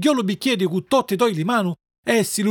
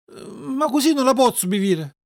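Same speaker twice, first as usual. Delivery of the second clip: higher-pitched reluctant whine; sulky complaint; 5 semitones higher than usual. Acted. Puppet making excuses to the fairy, sulking. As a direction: grumble like a fussy child. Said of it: "disse lo pupu torcendo le musi".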